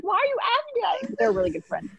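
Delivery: very high mock-sobbing protest; mock tearful squeal; retold sobbing. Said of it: "she could not stop sobbing".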